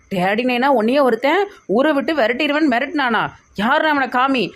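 high-pitched indignant questioning; outraged disbelief. Acted. Child hears Daddy Naina was threatened, outraged disbelief. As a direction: demand to know who dared.

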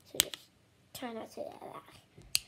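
unvoiced soft warning; whisper. Real, not acted.

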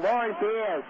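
Lauren Beers in a broad Boston accent, r dropped. Shown as a demonstration. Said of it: "A little Boston accent coming in".

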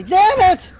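high, loud burst of frustration; angry outburst. Real, not acted. Player falls down the rope, angry outburst. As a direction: curse the game in sudden anger.

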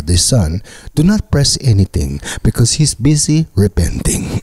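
lightly voiced phone menu recording; a mock answering machine greeting, read evenly. Omar's religious parents' answering machine, lightly mocked. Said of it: "listen to the beep and you press one".

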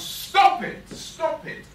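full-force, high-pitched yell; urgent shout. Acted. Bystander to the boy hitting another, urgent shout. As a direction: shout to break up a fight. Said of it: "suddenly somebody shouts".

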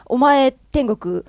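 slow, loud verdicts "お前天国"; judging Enma. Retold or imitated. Enma sorting the dead, slow mock-stern verdicts. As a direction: hand down judgment like Enma. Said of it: "みたいな感じで判断するじゃないですか".

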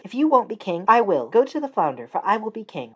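a pushy wife pressing her husband; wife's voice. Acted. Wife insists on kingship.

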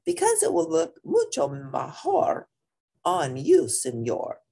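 high teasing dog voice persuading a friend; high puppy voice. Acted. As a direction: squeak it up like a cheeky pup. Dog characters bantering in story.

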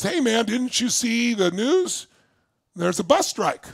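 a casual guy calling from his car; passing driver. Retold or imitated. Driver telling stranded teen about the strike, casual call.

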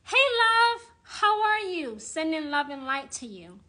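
lightly mocking sugary sweetness; mock sweet greeting. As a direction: parody a syrupy love-and-light witch. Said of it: "That language right there".

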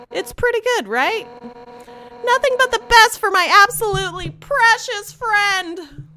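high, loud, brash warrior voice; character voice. Acted. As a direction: crow it out high and proud. Player voices game character.

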